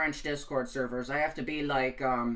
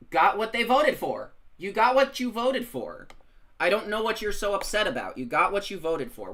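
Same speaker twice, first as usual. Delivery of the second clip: louder and higher, mocking told-you-so; taunting; 7 semitones higher, 6 dB louder than usual. Taunting voters upset about their own vote, loud mocking jab. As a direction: rub it in their faces.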